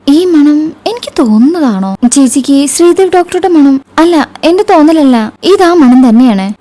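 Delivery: lightly voiced younger sister, high and eager; an excited girl sniffing out a secret, pitched high. Alli voiced by narrator. (ആവേശത്തോടെ ഉയർന്ന ശബ്ദത്തിൽ അനിയത്തി)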